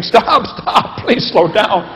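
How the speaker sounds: high laughing shout begging to stop; hammed-up panic, laughing through it; mock scared screaming. Kids on spinning merry-go-round begging to stop, high laughing shout. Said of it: "But now they're screaming".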